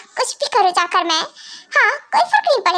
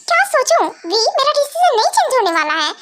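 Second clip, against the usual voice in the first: indignant retort; 4 semitones higher than usual. Acted. Defiant retort in quarrel.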